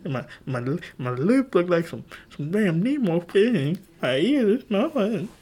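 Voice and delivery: high-pitched mock whining; imitating a wounded roast victim. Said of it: "and he said".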